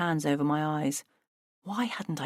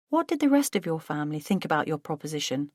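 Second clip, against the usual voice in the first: gentle; faster than usual. Acted. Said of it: "I asked gently".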